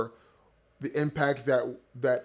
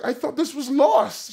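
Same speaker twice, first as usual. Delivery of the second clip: high, louder, laughing through it; laughing disbelief; 10 semitones higher, 6 dB louder than usual. Retold or imitated. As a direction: gasp it out amid a laugh.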